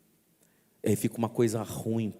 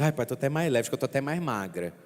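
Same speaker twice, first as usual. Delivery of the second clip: imitating a penitent; 4 semitones higher, faster than usual. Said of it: "eu falo assim".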